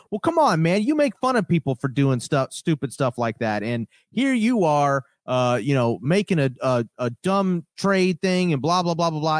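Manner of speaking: a hammed-up tantrum, sliding into blah blah; mock ranting host. Host yelling at his co-host in a mocked rant. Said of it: "screaming at the other dude".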